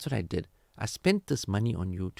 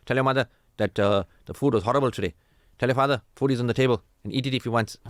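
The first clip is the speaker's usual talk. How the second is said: put-on louder, pointed message through the kids; sulky spouse relay; 5 dB louder, faster than usual. Spouse sending cold messages through the children, louder and pointed. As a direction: snub the spouse, speak via the children.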